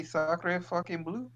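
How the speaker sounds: mild stab at tough French swearing; trying to sound hard. Shown as a demonstration. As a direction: draw out the French swear as a questioning suggestion. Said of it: "You can't sound hard if you say".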